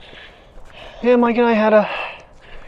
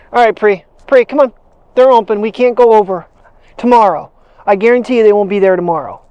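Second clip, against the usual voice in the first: calling the dog; 3 semitones higher, 5 dB louder than usual. Real, not acted. Urging the dog onward.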